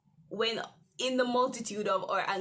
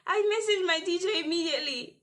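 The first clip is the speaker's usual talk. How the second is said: rushed; 7 semitones higher, 5 dB louder, faster than usual. Real, not acted. Rushed retelling.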